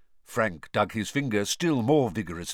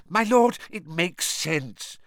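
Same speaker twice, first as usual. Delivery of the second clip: high, eager servant voice; relieved, pitched-up agreement; thoroughly relieved; 8 semitones higher, 5 dB louder than usual. A narrator's reading. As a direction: seize on it with squeaky relief. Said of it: "sounding thoroughly relieved now".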